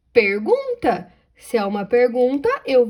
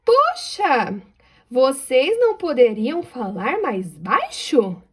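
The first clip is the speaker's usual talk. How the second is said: exclaimed "Poxa!" then slow question; exclaiming question; slower than usual. Shown as a demonstration. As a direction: exclaim then ask slowly. (exclamação e pergunta lenta)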